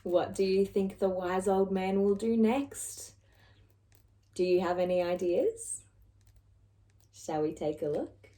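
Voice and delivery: soft whisper to the listeners; hushed aside. Acted. Narrator whispers to the children, softly. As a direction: lean in and whisper the question.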